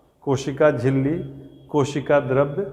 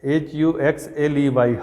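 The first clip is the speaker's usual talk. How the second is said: spelling aloud; slower than usual. Shown as a demonstration. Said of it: "लिखिए हक्सले".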